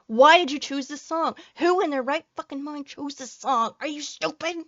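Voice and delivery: exasperated high ranting at the trailer; angry rant. Real, not acted. Annoyed fan scolds trailer makers, angry high rant. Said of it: "I'm angry today".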